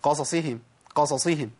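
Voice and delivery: قصصهم quick, vowels snatched short; clipped-vowel mistake. Shown as a demonstration. Teacher repeating the mistake, shortened vowels. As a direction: let the two ص in قصصهم run together. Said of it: "أنا اختلست من الحركات".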